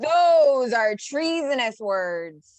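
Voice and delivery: slow, loud indignant declaration; outraged. Acted. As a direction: thunder it out, scandalised. Patriot outraged at treason.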